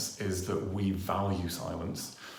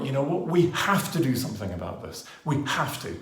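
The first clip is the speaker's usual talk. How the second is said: rallying insistence; emphasized with volume; 4 semitones higher than usual. Shown as a demonstration. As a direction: push it out so the room hears the call. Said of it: "I'm emphasizing that with my volume".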